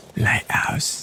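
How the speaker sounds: loud stage whisper that carries too far. Searching for the lighthouse they need to investigate: loud whisper. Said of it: "that was a bit loud for a whisper".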